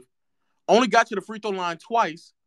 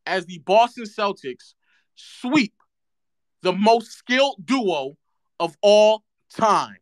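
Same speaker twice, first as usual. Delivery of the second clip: slow sarcasm; slower than usual. Acted.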